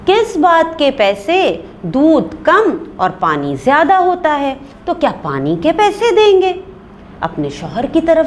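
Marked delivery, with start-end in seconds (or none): 0.1-6.6 indignant, raised and higher; wife scolding the milkman from her room. A narrator's reading. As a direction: call back scornfully from the other room. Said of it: "ऊंची आवाज़ में कहती हैं".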